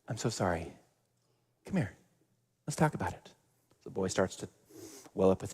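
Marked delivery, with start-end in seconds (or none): 0.1-3.3 comforting nana. Retold or imitated. Nana comforting bullied boy.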